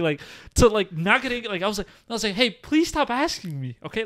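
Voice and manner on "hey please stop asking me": slow, higher gentle plea; slowly and kindly ask her to stop; calm polite request. Shown as a demonstration. Showing exactly how he asked her, slow and gentle. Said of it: "like that".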